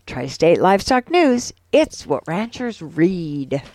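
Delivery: measured, polished sponsor read. Acted. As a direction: read it like a radio sponsor spot. Reads a sponsor message.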